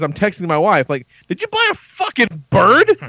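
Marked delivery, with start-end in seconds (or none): 1.3-3.0 incredulous disbelief. Retold or imitated. Texting wife in disbelief.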